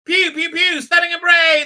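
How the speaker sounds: high, loud play-fight noises; hammed-up blaster yells; mock battle shouting. Acting out the shootout, high mocking shouts.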